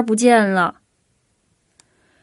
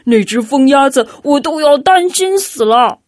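louder, strained "那只疯鸭子"; excited cry; 3 semitones higher, 5 dB louder than usual. A narrator's reading. Hodge hears the duck is found, excited cry. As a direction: burst out with relief. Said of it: "霍奇激动地大叫起来".

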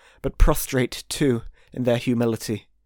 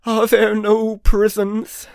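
echoing ethereal energy being; 10 semitones higher, 5 dB louder, slower than usual. A narrator's reading. Spirit mocks Scrooge's words.

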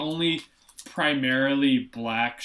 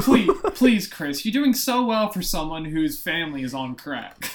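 mock patronizing teacher; 2 semitones higher, 4 dB louder than usual. The sitcom teacher to Chris, mock gushing and loud. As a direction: ham up the condescending teacher.

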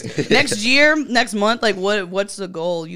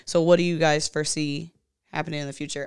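talking while chewing; words round a bite of mac and cheese; mouth full; 3 semitones lower than usual. Real, not acted. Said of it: "sorry, I'm eating".

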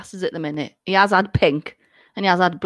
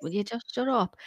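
1 muttered annoyance; 10 dB quieter than usual. Retold or imitated. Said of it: "I'm just like".

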